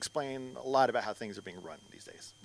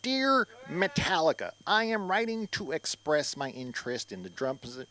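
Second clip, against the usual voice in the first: formal letter voice. Pretend. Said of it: "cover letter".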